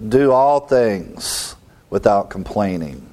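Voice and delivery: slow, with weight on all; deliberate scripture reading; slow emphatic reading. Shown as a demonstration. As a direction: read the verse slowly, leaning on all. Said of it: "apply this".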